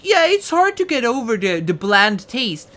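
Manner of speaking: quoting an ad with scorn; mock ad voice. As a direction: drag out "bland taste" in parody. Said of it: "I'm quoting".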